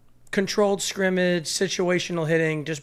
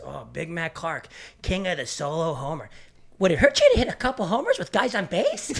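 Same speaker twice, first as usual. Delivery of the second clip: sarcastic coach; 4 dB louder than usual. Retold or imitated. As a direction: needle the slugger like a sarcastic coach. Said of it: "He goes".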